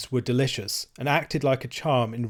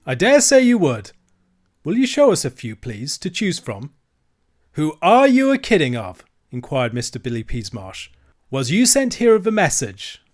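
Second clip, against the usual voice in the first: higher, louder sneering dealer; mocking horse dealer; 4 semitones higher, 6 dB louder than usual. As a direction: scoff at the rich boys.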